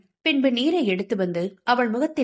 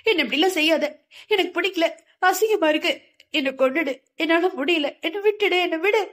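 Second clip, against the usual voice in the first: shrieking; 7 semitones higher than usual. A narrator's reading. Sindhu shrieking at someone in her nightmare, high and frantic. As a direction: scream out in disgust and fear. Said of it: "வீறிட்டு அலறியவள்".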